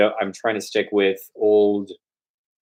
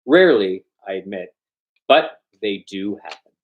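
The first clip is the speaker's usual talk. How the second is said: measured storytelling read; story narration; 2 semitones higher than usual. A narrator's reading. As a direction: read the tale to listeners evenly. Reads Gogol story aloud.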